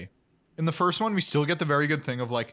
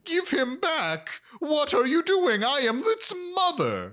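robot mom voice; 12 semitones higher than usual. Retold or imitated. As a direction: plead as a robot parent. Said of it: "through the microphone goes".

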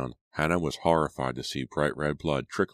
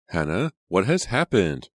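alarmed; 5 semitones higher, 5 dB louder than usual. Acted. Sister rushes in alarmed.

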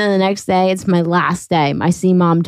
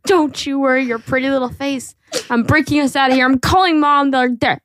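mock-brave big sister, pitched up; putting on strength; 4 semitones higher than usual. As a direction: imitate a protective sister's strong face. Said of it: "I was putting such a strong face for her".

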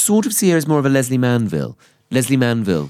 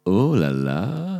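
mock French; 4 semitones lower, much slower than usual.

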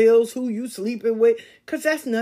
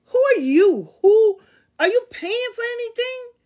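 mock confrontation; 11 semitones higher, 6 dB louder than usual. Confronting a critic, retold.

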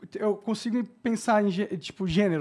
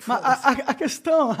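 laughing while talking; 3 semitones higher, 4 dB louder than usual. Real, not acted. Laughing mid-sentence.

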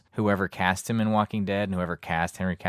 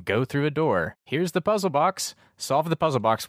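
video game voice; 7 semitones higher than usual. Retold or imitated. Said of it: "it's like".

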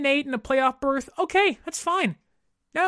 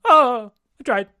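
mocking excuse; 7 dB louder than usual. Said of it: "You're running past guys and going".

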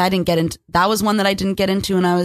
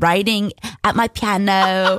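put-on New Zealand accent. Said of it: "This is my New Zealand accent".

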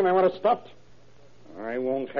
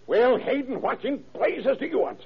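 irritated shout; 9 semitones higher than usual. Acted. Irritated master yells at butler.

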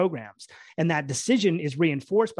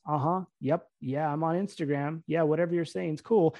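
pretending to listen. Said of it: "I'm like this".

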